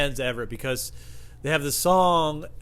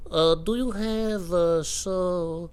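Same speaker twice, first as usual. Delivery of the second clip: high, slow hesitant voice; second customer; 6 semitones higher, much slower than usual. Retold or imitated. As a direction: ask haltingly in a high put-on voice. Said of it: "another guy comes up to me".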